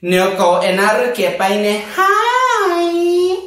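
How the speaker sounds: high, slow, drawn-out put-on voice; sassy can't-hear-you. Shown as a demonstration. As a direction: stretch every word with drag sass. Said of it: "Así".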